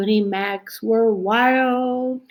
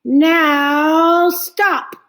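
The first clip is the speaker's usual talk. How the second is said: higher, louder sharp command; firm order; 8 semitones higher, 7 dB louder than usual. Acted. Max ordering the wild things to stop, loud and firm. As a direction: halt the party with authority. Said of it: "Max said".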